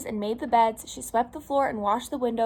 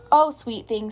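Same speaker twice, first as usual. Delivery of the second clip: mildly tender mother voice; 7 dB louder than usual. A narrator's reading. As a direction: speak fondly, as to a little one. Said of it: "said her mother tenderly".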